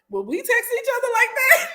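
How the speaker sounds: laughing high mock question. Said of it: "Kandi was like".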